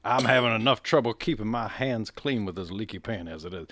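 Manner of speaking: huffy Southern lawyer brushing him off; Southern accent. Acted. Lawyer refusing the detective: light Southern accent. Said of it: "everyone's got a Southern accent".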